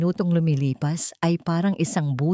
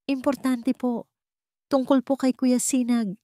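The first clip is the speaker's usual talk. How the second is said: lightly voiced girl, higher, urgent and pleading; pleading child; 7 semitones higher than usual. A narrator's reading. Tala pleads with the old cook, hushed and urgent.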